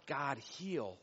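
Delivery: hushed, low plea to God; praying. Acted. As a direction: pray it softly and heavily. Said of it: "and you pray to God".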